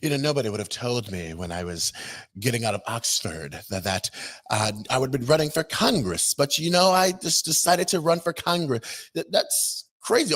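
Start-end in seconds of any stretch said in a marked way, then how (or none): 0.0-9.1 mock prim voice. Commentator parodying Crockett's polished old self, mild mock. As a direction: lightly parody the polished politician. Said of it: "that was just one version".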